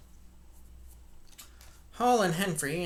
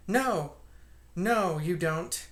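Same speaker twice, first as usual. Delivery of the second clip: loud "No!" then slower; sharp cry; 2 semitones higher, 4 dB louder, much slower than usual. Acted. Voice inside the parlor crying out in protest. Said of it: "a sharp cry of".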